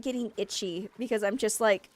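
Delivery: ordinary talk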